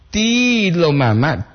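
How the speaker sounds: Tilo mama spelled out slowly; slow word demo. Shown as a demonstration. Teacher models Tilo mama slowly for listeners.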